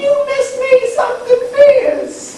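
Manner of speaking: weird put-on voice. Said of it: "Do you have a problem with the way I talk?".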